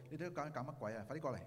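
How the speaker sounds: half-hearted telling off; mock scolding. Interpreter echoing an imagined angry Jesus, mildly scolding. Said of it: "係咪鬧佢哋".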